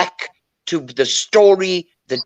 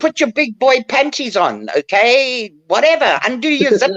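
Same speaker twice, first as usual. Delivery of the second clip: higher, defiant telling-off; mock outburst, pitched high; retold defiant outburst; 5 semitones higher than usual. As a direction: throw it back at them, defiant. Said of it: "then one day I decided".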